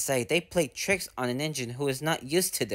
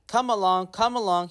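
a touch higher, cheerful puffing; puffing engine; 5 semitones higher than usual. Acted. Happy Thomas to the trucks, lightly puffing. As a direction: lightly puff the words out, happy. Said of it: "he puffed".

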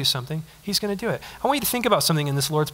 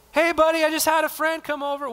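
neighbor at the door; 8 semitones higher than usual. Acted. Neighbor knocking at night.

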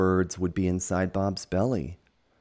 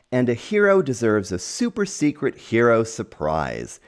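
higher and louder bird voice, eager; excited; 6 semitones higher, 7 dB louder than usual. Acted. Excited bird promises Bob a surprise, eager. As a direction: bubble over with the surprise. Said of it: "said a bird who was very excited".

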